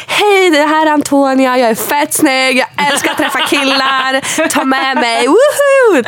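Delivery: high, slow self-presentation ending in a whoop; hammed-up audition tape. Guest re-enacts her audition video on a pedal boat, hammed-up. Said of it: "Och jag bara".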